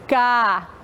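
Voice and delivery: "cadeado" in pieces, ca, de, a, do, with gaps; syllable by syllable. Shown as a demonstration. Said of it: "Contando a quantidade de vezes".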